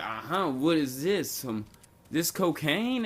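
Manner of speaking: slow 'uh-huh', rising on the accusation; suspicious officer. Retold or imitated. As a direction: imitate a cop sure he's caught someone. Officer thinks he found drugs.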